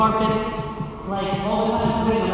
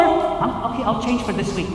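sheepish promise; 3 semitones lower, 6 dB quieter than usual. Retold or imitated.

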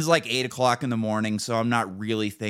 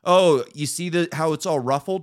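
mock technician; 6 semitones higher, 5 dB louder than usual. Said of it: "And he goes".

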